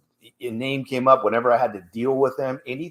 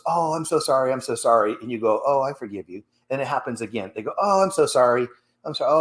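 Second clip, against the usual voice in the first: mock apologetic abuser; faster than usual. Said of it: "someone goes".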